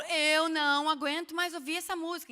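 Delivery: hammed-up outburst of being fed up. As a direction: complain loudly, at the end of your patience. Acts out being sick of song.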